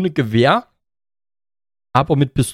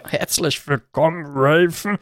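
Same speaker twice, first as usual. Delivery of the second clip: exhausted drawl; much slower than usual. Pretend. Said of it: "Meine Kraft schwindet langsam".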